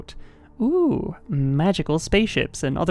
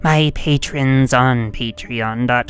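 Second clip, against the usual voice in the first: evil villain voice; 4 dB louder than usual. Pretend. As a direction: boom it out like a cartoon villain. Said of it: "Now I shall only talk in the Foxy evil voice".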